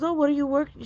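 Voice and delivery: high-pitched imitation of a receptionist; receptionist's question. Receptionist asks about her stitching, high and imitated.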